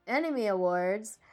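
"Anime Awards" said slowly, each syllable spelled out; over enunciating. Shown as a demonstration. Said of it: "Let me say that slowly".

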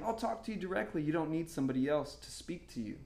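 gentle, softened reassurance; quiet voice of God, lightly acted; Holy Spirit speaking. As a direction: drop the volume and reassure directly. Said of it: "the Holy Spirit was saying".

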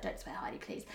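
hushed, breathy plea not to swear; whispered warning. Retold or imitated. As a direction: whisper it so the class won't hear. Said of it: "she's like".

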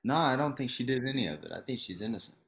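quick denial, sarcastic but played straight; deadpan sarcasm. Real, not acted. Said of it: "you being sarcastic?".

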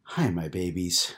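put-on slow, smiling hello to her kids; mother crouching to greet her children, smiling; tender, slowed-down smiling greeting. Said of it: "Lisa said with a smile".

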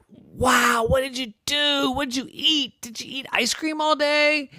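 very high eager questions; awed questions. A narrator's reading. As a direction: pepper him with questions. Clouds ask amazed.

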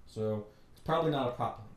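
loud, triumphant yes, then settling down; excited yes. Retold or imitated. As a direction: cheer that someone finally noticed. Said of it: "I'm like".

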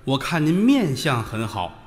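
slow, measured flattery; fortune-teller's pitch. Acted. Fortune teller to a passing man, slow solicitous pitch. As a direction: draw out the words to hook a customer.

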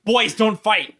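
playful high-pitched plea; mock peacemaker. Stepping into gods' quarrel, acted.

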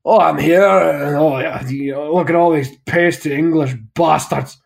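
lightly mocked gruff Scottish thanks, slow in places; Scottish acceptance speech. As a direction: grumble through the thanks like a Scotsman. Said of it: "a Scotsman gets up on stage ... he just goes".

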